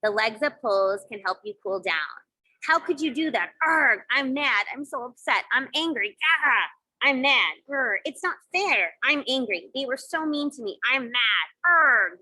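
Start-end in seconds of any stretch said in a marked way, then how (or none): 2.6-12.2 mock-mad outburst with growled args; acted anger. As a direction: play at being upset and angry, lightly hammed-up. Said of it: "Getting mad can heat you up".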